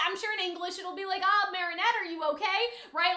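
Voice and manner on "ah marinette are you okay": imitating a gentler dubbed version of the friend; gentle. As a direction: ask with polite concern. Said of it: "I'm sure it won't be that blunt".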